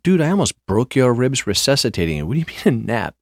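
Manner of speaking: can't believe he was napping; incredulous. Retold or imitated. Scolding Rick after the rescue, high and incredulous. Arguing with Rick who napped.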